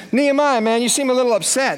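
a king bluntly pointing out sadness; the king noticing. Acted. The king confronting sad Nehemiah, blunt.

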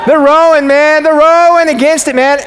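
high, urgent, emphatic insistence; fired-up preaching. Real, not acted. Pastor to congregation on the rowers' struggle, fired-up.

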